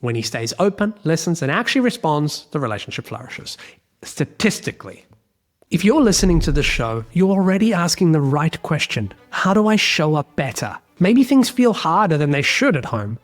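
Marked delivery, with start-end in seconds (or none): 4.0-13.2 punchy promo read with music under it. Acted. Host pitching his email course to listeners, upbeat ad read. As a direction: sell the newsletter like a host-read ad.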